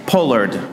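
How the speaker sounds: "pollard" with a long O, like "pole-ard"; British pronunciation. Shown as a demonstration. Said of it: "how the name actually is supposed to be pronounced".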